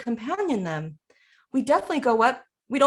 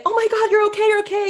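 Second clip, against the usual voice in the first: much higher, louder frantic reassurance; mock panic; 12 semitones higher, 7 dB louder, much faster than usual. Parent rushing to a hurt child, mock panic. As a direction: rush in with hammed-up alarm.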